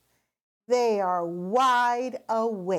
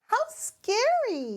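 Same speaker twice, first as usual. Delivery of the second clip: mock scared. A narrator's reading. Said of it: "says Mummy Pig".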